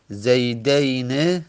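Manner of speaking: زیدین with an "ey" diphthong, ending in short e; dual ending -eyne. Shown as a demonstration. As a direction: say زیدین as zeydeyne, with final kasra. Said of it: "کسره باشه، اون علامت مثناست".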